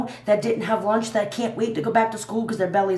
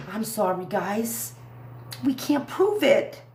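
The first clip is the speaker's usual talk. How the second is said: mock FBI apology; 4 dB quieter, slower than usual. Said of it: "the F B I is gonna say".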